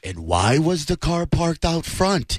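slow, a hint of an ominous true-crime host; lightly voiced eerie crime reporter; Keith Morrison. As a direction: slowly tease the mystery. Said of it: "the guy who does all those".

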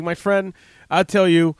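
lightly imitating the Iraqi policeman's accent. Iraqi policeman answering the soldier, with a light Iraqi accent. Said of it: "and he had an accent".

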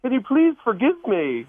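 high-pitched put-on British accent; fake British accent. Shown as a demonstration. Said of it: "hear just a little bit of your fake British accent".

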